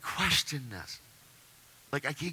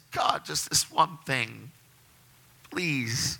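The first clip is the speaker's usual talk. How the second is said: pleading; much slower than usual. Retold or imitated. Retold prayer ends in begging.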